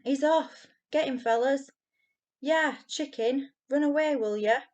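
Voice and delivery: put-on high, loud jeering shouts from the chasing boys; shrill cries. A narrator's reading. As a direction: yell after him like a pack of bullies. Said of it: "with shrill cries".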